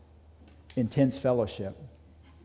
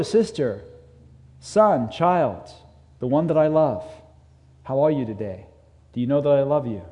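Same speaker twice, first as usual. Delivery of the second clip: God speaking. Acted. Lightly voiced God telling his child he loves them. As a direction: call out, then speak tenderly. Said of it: "He's communicating to us".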